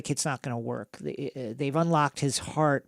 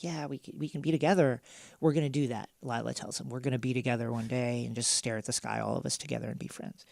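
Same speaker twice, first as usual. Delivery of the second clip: gentle comforting; 3 semitones lower, 6 dB quieter, faster than usual. Retold or imitated. Lila voiced comforting Rocket.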